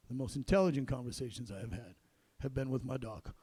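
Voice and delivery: low, earnest retold farewell; deadpan heartfelt, kept low; understated bedside sincerity. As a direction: say it quietly, as if confiding.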